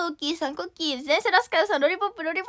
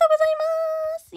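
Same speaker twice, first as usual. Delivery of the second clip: squeaky thanks; 11 semitones higher, faster than usual. Acted. High squeaky thank-you to gifters.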